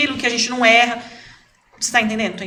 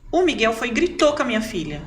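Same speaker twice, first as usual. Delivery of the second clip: ordinary talk, nothing marked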